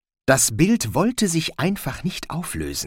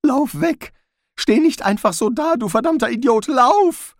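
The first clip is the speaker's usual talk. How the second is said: much higher, shouted warning; urgent shouting; 12 semitones higher, 4 dB louder than usual. A narrator's reading. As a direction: yell at him to run. Rincewind yells at Zweiblum.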